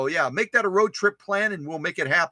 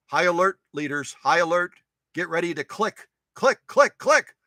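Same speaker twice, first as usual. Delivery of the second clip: mock alarm.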